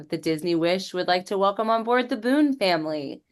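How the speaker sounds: lightly voiced ship announcer welcoming the family; a hint of a ship's announcer. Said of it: "So it'll say".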